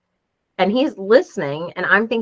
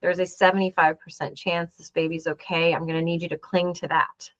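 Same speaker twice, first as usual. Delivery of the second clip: soft, gently reassuring doctor; lightly voiced kind doctor, a little hushed; kindly; 5 dB quieter than usual. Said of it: "The doctor very kindly says".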